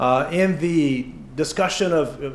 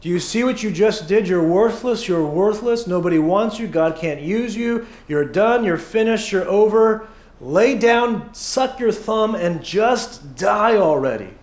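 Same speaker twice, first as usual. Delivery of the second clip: Satan's condemnation. Retold or imitated. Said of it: "Satan's condemnation is".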